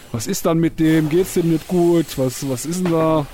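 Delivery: lightly voiced worried neighbour; höher und lauter als besorgte Nachbarn; complaining neighbours. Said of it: "weil die sich immer beschwert haben". (nachgemachte Nachbarn, leicht höher)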